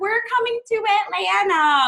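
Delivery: put-on high little-girl voice. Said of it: "she'd constantly be like".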